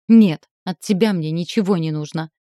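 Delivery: резко и громко отрезать; оборвать его, громче; отрезала. Acted. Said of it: "отрезала я". (резко отрезала)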